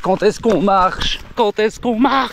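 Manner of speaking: slow, high whining plea; whiny high voice. Pretend. Tired runner begs to walk. (voix plaintive aiguë et lente)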